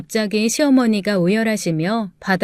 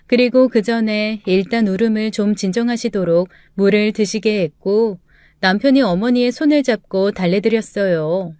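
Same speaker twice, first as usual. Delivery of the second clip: plain reading voice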